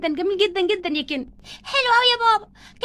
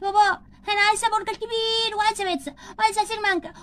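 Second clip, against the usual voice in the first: put-on child's voice; 3 semitones higher than usual. Barbie voicing a child ordering food.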